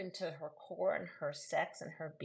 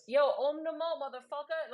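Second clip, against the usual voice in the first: higher, louder tough-guy chant; action hero yoga; 11 semitones higher, 7 dB louder than usual. Pretend. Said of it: "Sadhguru meets Die Hard".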